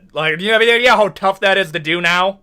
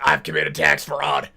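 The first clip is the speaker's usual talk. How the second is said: low, slow, quiet admission; hushed, slowed-down mock confession; 7 semitones lower, 5 dB quieter than usual. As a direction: own up to it under your voice. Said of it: "or it's like".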